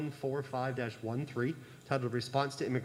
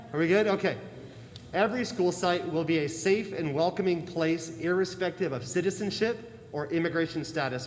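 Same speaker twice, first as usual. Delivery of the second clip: projected coach voice, raised; barking gym coach; 3 semitones higher, 3 dB louder than usual. Real, not acted. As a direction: carry it across the room like a coach. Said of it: "Use my coach voice".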